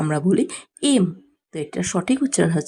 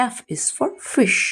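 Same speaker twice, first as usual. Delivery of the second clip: slow drill; 2 semitones higher, much slower than usual. Shown as a demonstration. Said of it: "slow teaching drill".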